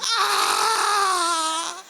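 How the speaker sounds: long, high hammed-up scream; mock horror scream. Preacher mimicking a man seeing mother-in-law at the door, mock scream. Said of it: "Así gritaron".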